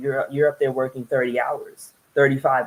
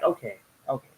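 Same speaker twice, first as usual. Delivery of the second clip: calling time out; 3 dB louder than usual. Retold or imitated. Interrupting the husband.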